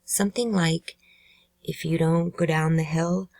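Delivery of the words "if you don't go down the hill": "hill" left rising, as if unfinished; conditional if-then intonation. Shown as a demonstration. Narrator guessing at the recorded words, conditional intonation. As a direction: lead up to "hill" like the first half of a threat. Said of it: "beginning part of a conditional if-then statement".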